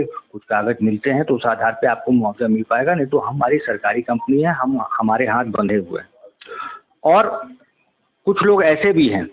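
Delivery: measured reporter's piece to camera; news report. Acted. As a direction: report to camera, steady and serious. (TV reporter का गंभीर अंदाज़)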